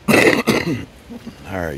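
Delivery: throat clearing after a bug; recovering from a swallowed bug; just swallowed a bug. Real, not acted. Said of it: "Sorry, I ate a bug".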